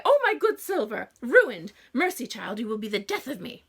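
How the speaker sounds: hammed-up fussy mother; distraught mother. A narrator's reading. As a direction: wail over the ruined silver. Mother wails over ruined silver.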